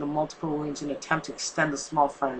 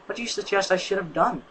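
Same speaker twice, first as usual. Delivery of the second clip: usual speaking voice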